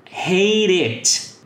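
"hate it" run together, the t flapped like a Portuguese r, "heɾ it"; linked pronunciation. Shown as a demonstration. Teacher showing students the linked "hate it" with a tapped r. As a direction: link "hate it" with a quick tapped r sound. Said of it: "com aquele mesmo som de R".

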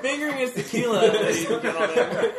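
laughing mock announcement to the room; mock announcer. Friend teasingly announces the tequila to the crowd, laughing mock announcer. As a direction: play the ringside announcer while laughing.

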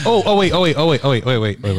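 high, insistent repeats, settling towards the end; excited interrupting. Real, not acted. Guessing the word a friend can't find, excited interrupting. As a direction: cut in as if the word is on your tongue.

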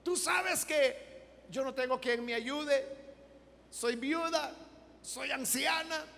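a retold desperate prayer that builds; praying widow. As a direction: plead to God, rising in volume and pitch. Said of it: "Y ella decía".

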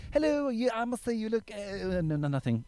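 put-on high, strangled hello to a girl; nervous coworker. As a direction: squeak it out, losing nerve. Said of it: "He's like".

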